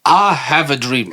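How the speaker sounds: slow, lightly put-on orator's voice; measured, half-joking speech impression; Nelson Mandela. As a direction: try a statesman's accent, drawn out. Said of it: "do this guy as Nelson Mandela".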